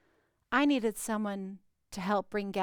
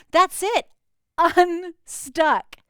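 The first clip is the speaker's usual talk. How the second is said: triumphant exclaim; 6 semitones higher, 10 dB louder, much slower than usual. Acted. Climax of the healing story.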